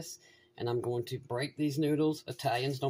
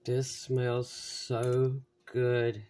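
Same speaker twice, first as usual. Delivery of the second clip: slow, savoring sigh; savoring a smell; much slower than usual. Real, not acted. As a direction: linger over each word, enjoying it. Smelling the food.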